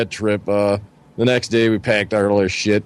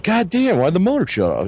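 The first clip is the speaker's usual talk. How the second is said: retold annoyance; 8 semitones higher than usual. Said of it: "gonna piss him off".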